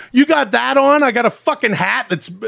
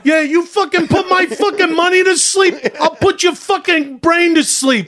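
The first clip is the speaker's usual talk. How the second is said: higher, heated tough-guy threats; ranting character voice; 6 semitones higher than usual. Acted. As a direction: threaten him like a mobster in a tirade.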